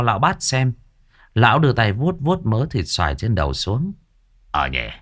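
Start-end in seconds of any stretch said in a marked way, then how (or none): 4.5-4.9 very low, subdued mumble; sheepish realisation. A narrator's reading. Old master finding mango on his head, sheepish. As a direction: drop the voice as the truth dawns.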